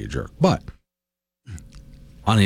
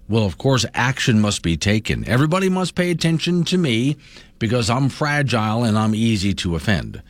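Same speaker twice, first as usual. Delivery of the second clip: mock offended; 3 semitones higher than usual. Host mimicking someone who acts offended to gain power, mock offended. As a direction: put on a touch of self-important offense. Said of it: "all I have to do ... is act offended".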